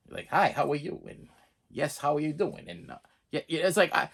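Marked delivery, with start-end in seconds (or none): 0.3-1.0 low-key, drawn-out mock actress delivery; slow acting imitation. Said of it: "like, really slow". 1.7-2.7 softer mock actress greeting, drawn out; slow acting imitation. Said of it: "like, really slow".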